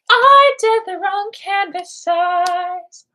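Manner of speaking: gasp, then a loud, slow, high shout; shocked outcry at a mistake; real dismay, shouted high; horrified gasp. Real, not acted. Realizes wrong canvas size.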